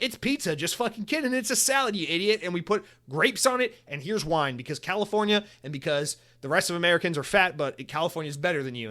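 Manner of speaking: high, hammed-up snooty voice; mock the preachy upscale menu, nose in the air; smug California menu. Vlogger mocking California Pizza Kitchen's smug vibe, high snooty voice. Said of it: "all the things where, like".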